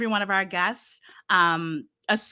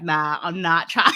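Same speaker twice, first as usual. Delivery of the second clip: laughing; 4 semitones lower, 4 dB louder than usual. Real, not acted. Laughing refusal.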